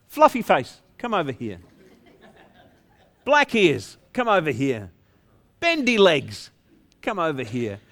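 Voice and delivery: lightly acted call, name up, summons dropping low; shepherd calling sheep. Shepherd to the flock he named, lightly acted calling. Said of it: "they would call them".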